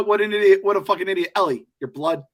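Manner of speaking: imitating a sports-radio blowhard yelling at the screen; hammed-up exasperated sports rant; Portnoy rant. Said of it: "cue the, the Portnoy soundbite".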